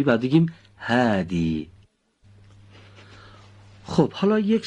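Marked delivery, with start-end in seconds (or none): 0.8-1.7 هادی with a thin, breathed, uncut H; Arabic pronunciation. Shown as a demonstration. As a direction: say هادی the Arabic way, H light and flowing. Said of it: "مثلاً اگه بخوایم هادی رو صدا بزنیم به عربی".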